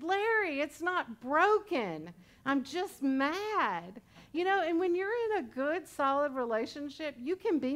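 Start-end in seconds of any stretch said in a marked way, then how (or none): 0.0-4.0 stubborn reply. Retold or imitated.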